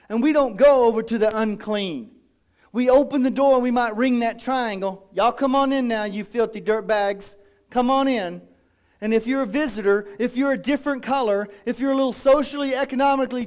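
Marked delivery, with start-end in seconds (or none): 5.1-8.5 a hint of a smug country welcome; lightly hammed fake hospitality; mildly voiced condescending greeter; mock welcoming usher.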